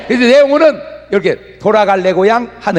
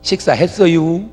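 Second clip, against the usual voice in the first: polite slow asking; 3 semitones lower than usual. Retold or imitated. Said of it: "밥 먹었냐고 물어볼 때도".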